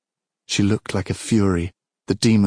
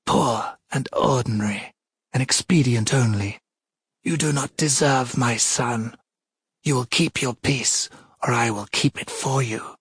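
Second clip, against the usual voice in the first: cold and cutting; 4 semitones higher than usual. Acted. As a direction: cut her down word by word. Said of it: "Each word fell like an axe blade".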